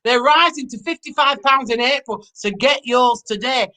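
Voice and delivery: mock northern English radio-ad read; hammed-up northern English accent plug. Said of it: "I'm doing it in northern accent".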